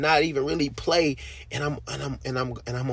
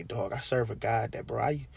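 quiet inner prayer; 4 dB quieter than usual. Retold or imitated. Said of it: "I sit back and I say".

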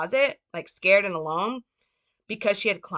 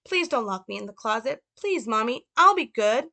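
put-on high child's voice, begging and pleading; Little Frank; 5 semitones higher, 3 dB louder than usual. Boy begging his mother not to lock him away, high pleading. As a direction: plead like a small boy afraid of the dark. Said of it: "Little Frank".

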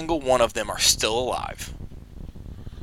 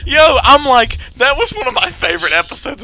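excited shout; 12 semitones higher, 8 dB louder than usual. Real, not acted. Excited outburst.

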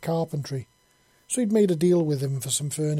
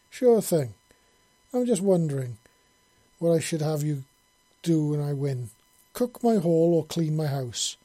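sly grin in the voice; teasing old man; 2 semitones higher, 4 dB louder than usual. Acted. Monty muses teasingly.

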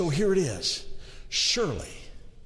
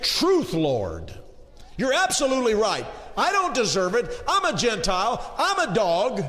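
pleading shout; 5 semitones higher than usual. Acted. Woman pleads with Jesus.

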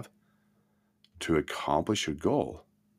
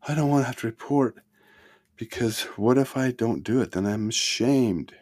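reluctant objection; 6 semitones higher than usual. Retold or imitated. A student doubting the accountability partner, in a reluctant whine. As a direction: play the doubter who dreads reporting. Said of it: "And you go".

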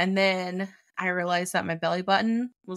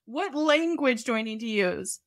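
exasperated plea; 5 semitones higher, slower than usual. Retold or imitated. Exasperated outburst at doctors.

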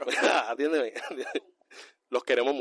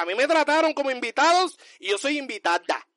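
mock complaint; 9 semitones higher than usual. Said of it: "ella diga".

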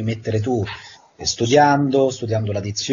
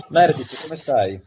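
lightly dubbed TV doctor voice; a hint of a romantic TV doctor; De Luca voice; 3 semitones higher than usual. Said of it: "la voce del dottor De Luca di Grey's Anatomy".

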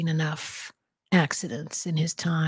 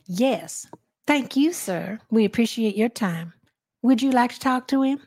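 put-on Southern accent; 4 semitones higher than usual. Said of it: "let me compliment you on your Maybelle Jackson".

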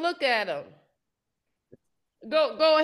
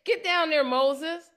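mildly heated, slangy divine scolding; acted angry God; 3 semitones higher than usual. Teacher voices God fed up with the people, mildly angry. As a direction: play fed up, voice lifting as it goes. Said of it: "I'm pissed off".

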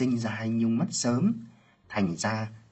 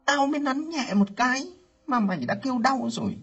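livid scolding; 11 semitones higher than usual. Acted. Aunt berating her niece after checking her, building rage. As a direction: start bitter and climb into a tirade. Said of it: "tím mặt bảo".

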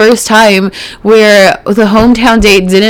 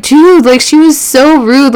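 higher, exasperated outburst at the screen; outraged disbelief; 6 semitones higher than usual. Real, not acted. Reacting to Peter giving the rude contestant a rose, exasperated and higher. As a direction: throw your hands up, talking to the Bachelor.

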